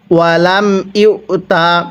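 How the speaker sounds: drawn-out chanted recitation; slow Quran recitation. Shown as a demonstration. Teacher recites for students to copy, slow chant. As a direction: stretch the vowels and hum the nasal. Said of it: "কিভাবে পড়ব?".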